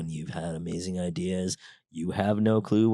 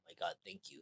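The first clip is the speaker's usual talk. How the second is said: grateful hush; 5 semitones lower, 15 dB quieter, faster than usual. Retold or imitated. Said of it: "I'm like".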